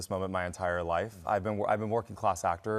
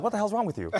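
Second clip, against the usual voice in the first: laughing mock scold; 12 semitones higher, faster than usual. J Lo reacts to his tears.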